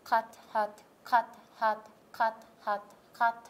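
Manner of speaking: loud drill. Shown as a demonstration. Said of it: "ほとんどこう動かさない感じ".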